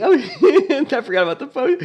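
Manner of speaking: cracking up mid-sentence; laughing. Real, not acted. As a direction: breaks into laughter while explaining. Laughing while talking.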